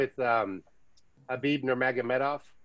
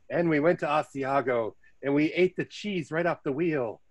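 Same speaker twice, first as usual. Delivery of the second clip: lightly put-on know-it-all traveller; mock pretentious. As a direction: imitate a tourist showing off as an expert. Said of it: "talking like they're the world experts".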